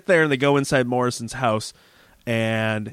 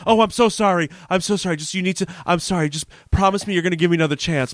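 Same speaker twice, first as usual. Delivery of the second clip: higher-pitched pleading, acted out; frantic apology; 6 semitones higher, faster than usual. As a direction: imitate a sudden desperate sorry. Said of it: "quick transition to being sorry".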